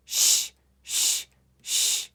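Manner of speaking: "Sh" as a voiceless hushing sound; "sh" alone, three separate bursts without a vowel; digraph sound. Shown as a demonstration. Teacher drills digraphs with pupils, isolated "sh" sounds. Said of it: "Let's make these sounds three times each".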